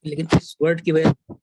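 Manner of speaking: breaking up over the call; bad connection. Real, not acted. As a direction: voice cutting out. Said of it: "آپ کی آواز کٹ رہی ہے".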